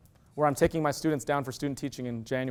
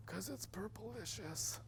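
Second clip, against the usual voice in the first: put-on high, soft, slow little-girl voice; imitating daughter; 6 semitones higher, 22 dB quieter, much slower than usual. Father quoting his kindergarten daughter, high soft slow child voice. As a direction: draw it out like a small child savoring the word. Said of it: "this is exactly how she said it".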